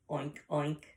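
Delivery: two short spoken oinks; pig oink. Acted. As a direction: imitate a pig oinking twice. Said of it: "A pig says".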